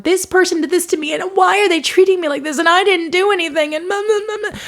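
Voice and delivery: high-pitched, rising into a mocking blah blah; mock victim rant, climbing high; mocking whine. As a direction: parody the self-pitying complaint. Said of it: "I'm not trying to mock you".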